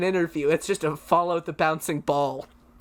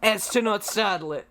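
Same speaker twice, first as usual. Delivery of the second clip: Aussie wildlife presenter impression; Steve Irwin. Guest plays wildlife host creeping up on crocodile, Australian impression. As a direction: narrate a crocodile stalk, Australian accent. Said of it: "I'll just do my Steve Irwin impression".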